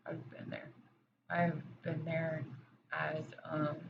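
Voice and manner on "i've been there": breathy, emotional, barely voiced; choked near-whisper. Real, not acted. To viewers, admitting her own past in a near-whisper. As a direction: let the words catch and fall to a whisper. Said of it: "I'm getting emotional".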